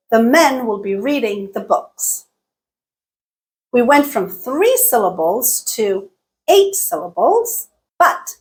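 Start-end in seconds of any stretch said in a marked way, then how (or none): 0.1-2.2 steady beats on MEN, READ, BOOKS, "will be" and "the" squeezed; stress-timed rhythm. Shown as a demonstration. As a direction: rush "will be" and "the" to keep men, reading, books on the beat. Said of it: "Listen to the duration of each utterance".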